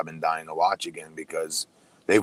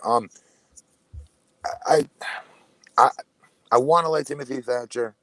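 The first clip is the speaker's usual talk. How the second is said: cheeks stuffed full; 6 semitones higher, 3 dB louder than usual. Real, not acted. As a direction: still chewing, mouth full. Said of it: "a mouthful of food here".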